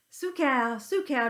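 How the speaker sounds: gentle coaxing call to the cows; a farmer sweet-talking his herd. Retold or imitated. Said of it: "just talking real sweet and gentle".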